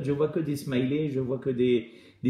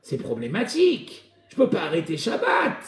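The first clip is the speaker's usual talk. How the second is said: mock excuse shout; 3 semitones higher than usual. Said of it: "les gens, qu'est-ce qu'ils disent".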